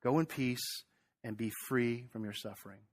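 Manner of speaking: soft, tender blessing, trailing quiet; Jesus blessing the healed woman, softly; gentle sending off. Acted. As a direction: send her off in peace. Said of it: "how Jesus sends her off".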